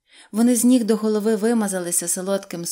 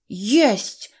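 exclaiming; 2 semitones higher, 5 dB louder than usual. A narrator's reading. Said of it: "вигукнув Незнайко".

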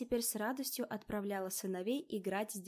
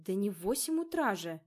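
surprised; 4 dB louder than usual. Acted. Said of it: "удивилась девушка".

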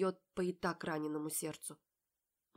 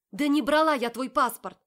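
much louder and higher; furious shout; 8 semitones higher, 15 dB louder than usual. A narrator's reading. Polly screams at Marat about the passport. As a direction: blast the denial at him.

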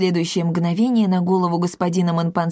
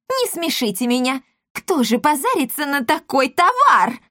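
higher, lightly scoffing; 7 semitones higher than usual. A narrator's reading. Matchmaker scoffs at the parents, mild scorn. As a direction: laugh off the offer.

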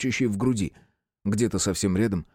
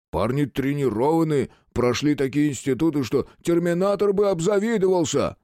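trembling voice; 7 semitones higher than usual. Acted. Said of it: "дрогнул голосом Квадратный".

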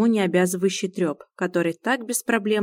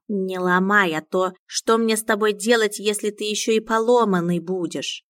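sarcastic. Acted. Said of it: "хмыкнул язвительно Миун".

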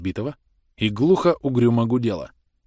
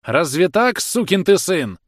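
high, louder outraged shriek; angry squeal; 8 semitones higher, 5 dB louder, slower than usual. A narrator's reading. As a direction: screech at him, voice jumping up. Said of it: "взвизгнул Становой". (визгливо, с яростью)

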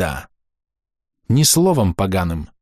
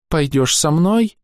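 put-on high, slow little girl near tears; trembling child voice; 10 semitones higher, slower than usual. A narrator's reading. Girl begs Gil to come with her, trembling. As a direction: ask it fearfully, about to cry. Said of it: "дрожащим голосом спрашивает она".

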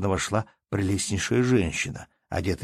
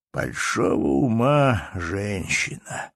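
put-on old man repeating; much slower than usual. Old count repeats his praise, slow and settled. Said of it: "прибавил он".

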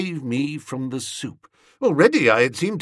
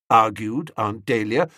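ordinary delivery, nothing marked

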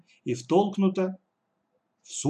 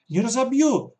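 much louder and higher cry; shouted protest; 11 semitones higher, 7 dB louder than usual. Acted. Katya yelling that she won't break the glass, much higher and louder. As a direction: yell the promise. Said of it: "закричала Катя".

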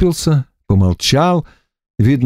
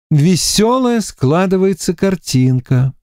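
slow, wry and a touch sad; grim summing up; 7 semitones higher, slower than usual. A narrator's reading. Варвара подводит грустный итог, медленно и иронично. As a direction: sum up a bad situation slowly, with irony. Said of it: "подвела грустный итог".

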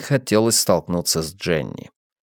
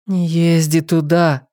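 pleading; 7 semitones higher, slower than usual. Acted. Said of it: "взмолилась Нэнси".

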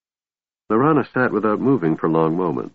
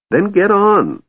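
very high, loud, impatient yell; shrill yell; 14 semitones higher, 5 dB louder, slower than usual. A narrator's reading. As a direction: shriek it at a stalling friend. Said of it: "Tass yelled shrilly".

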